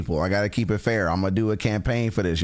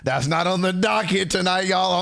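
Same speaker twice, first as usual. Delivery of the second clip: much higher, playful scolding repeat; raised mock scold; 6 semitones higher than usual. Shown as a demonstration. Streamer teasing chat with a high mock scold. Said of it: "said plainly just before".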